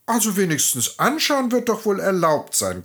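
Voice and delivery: put-on grumbling old woman. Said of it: "krummelte die Alte".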